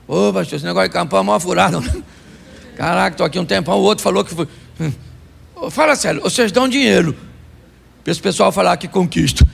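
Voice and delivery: mock-voiced fed-up churchgoer; grumbling churchgoer. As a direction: complain to the pastor like a fed-up member. Complaining churchgoer voiced by pastor.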